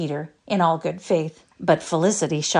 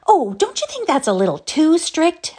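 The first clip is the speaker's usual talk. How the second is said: anxious; 11 semitones higher, 5 dB louder than usual. A narrator's reading. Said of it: "asked Cecily anxiously".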